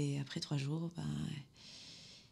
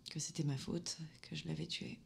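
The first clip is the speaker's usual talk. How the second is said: much softer, sinking away; hushed confession; 9 dB quieter than usual. Acted. Daughter blaming herself for her father's death, hushed. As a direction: let the guilt drop almost out of hearing.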